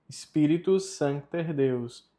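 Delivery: measured, careful "Spiritus Sancte Deus"; Latin pronunciation demo. Shown as a demonstration. Teacher repeating the line for learners, careful Latin model. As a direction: say "Sancte" with its C sounded. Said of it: "a pronúncia fica".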